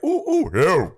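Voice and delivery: hooting like a monkey; mock ape hoots; monkey sounds. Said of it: "it's just been monkey sounds".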